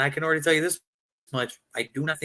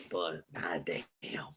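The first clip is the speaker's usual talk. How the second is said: slow muttered disbelief; 6 semitones lower, 9 dB quieter, slower than usual. Retold or imitated. Scolding the weed moment.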